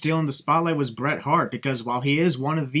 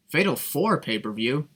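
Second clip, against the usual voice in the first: rising disbelief on four; mocking repeat. Shown as a demonstration. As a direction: echo Fatal four pay-per-view as a question. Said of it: "he meant to say Fatal four-way".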